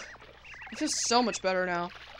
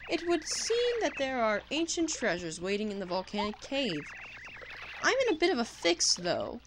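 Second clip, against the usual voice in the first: posh explorer. Acted. Explorer introducing himself to Mario, pompous and posh. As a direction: play the grand old chap explorer. Voicing Kolorado dialogue.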